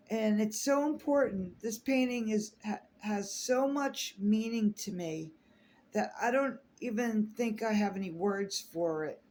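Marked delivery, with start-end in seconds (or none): 1.6-9.2 near tears. Real, not acted. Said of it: "I'm trying not to cry".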